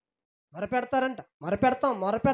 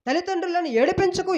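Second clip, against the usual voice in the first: raised, stern commands in God's voice; God rebuking; 5 semitones higher than usual. Retold or imitated. Preacher voicing God as he rebukes his people. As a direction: scold them like a father forbidding sin. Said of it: "నేను గద్దించాను".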